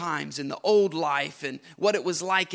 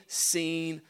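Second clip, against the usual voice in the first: hushed whisper to end the line; 6 dB quieter, slower than usual. Acted. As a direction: breathe the words out. Preacher drops to hush.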